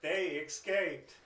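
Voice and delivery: high, loud, slow mock dismay; eager Jensen. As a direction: ham up the guard's fake worry. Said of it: "Jensen would be, like".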